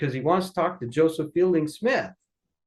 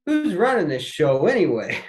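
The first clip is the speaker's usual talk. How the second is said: higher, louder mock grumble; a son retelling his dad's joke outside the office; playful disbelief, voice up; mock exasperation; 5 semitones higher, 4 dB louder than usual. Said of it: "he goes".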